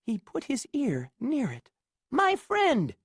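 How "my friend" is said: high, louder little Who voice; a tiny mayor calling up from a speck. Acted. Mayor thanking Horton, high and small. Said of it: "came the voice".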